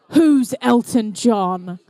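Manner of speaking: slow, low, stunned repeat of "Who's Elton John?"; disbelieving repeat. Retold or imitated. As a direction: drag out "Who's Elton John?" as if you can't believe it. Oh, my goodness.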